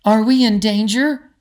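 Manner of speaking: put-on a young princess asking straight out; lightly voiced girl, blunt and direct; asked bluntly. A narrator's reading. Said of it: "Lizzie asked bluntly".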